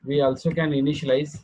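slow dictation with long pauses for students to write. Real, not acted. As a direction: read each phrase slowly for note-taking. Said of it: "चला लिहून काढा". (सावकाश लिहून घेण्यासाठी सांगणे)

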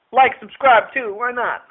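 loud, drawn-out plug for the channel; loud slow plug. Real, not acted. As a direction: call out the plug with a grin.

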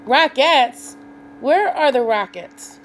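loud, high, eager searching; eager question. A narrator's reading. Cow eagerly looking for the rockets, excited. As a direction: ask it wide-eyed and loud.

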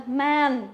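"Man" with a wide, open æ; teacher's recap "Man" with flat æ; flat E sound. Shown as a demonstration. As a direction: spread the vowel of "Man". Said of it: "đọc bẹt cái miệng ra".

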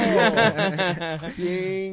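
high, loud thanks through laughter; laughing mock thanks. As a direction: fake gratitude while cracking up.

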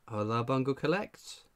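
ordinary delivery

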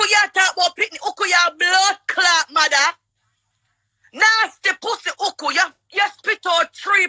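real heated yelling, fast at the end; angry shouting. Real, not acted. Woman defending herself and attacking Uku, angry shout. Heated live-stream insult quarrel.

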